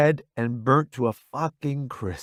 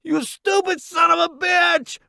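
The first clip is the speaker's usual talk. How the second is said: high, loud furious yell; angry yell; 4 dB louder than usual. Acted. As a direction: bellow it at him. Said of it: "Roddy yells".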